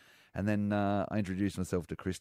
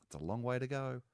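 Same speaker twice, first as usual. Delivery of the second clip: mild, polite cheer rising in pitch; Christopher Pine; 4 semitones higher than usual. Retold or imitated. Father reassuring a worried kid at footy, polite mock cheer. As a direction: imitate a genteel supporter, lifting into high chant. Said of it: "He goes".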